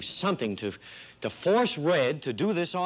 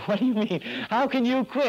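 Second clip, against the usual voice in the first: incredulous; 10 semitones higher than usual. Acted. Partner stunned by dummy quitting.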